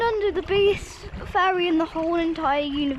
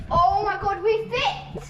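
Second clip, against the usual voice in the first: thrilled; 3 semitones higher than usual. Real, not acted. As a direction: cheer with disbelief. Squeezing through the narrow gap.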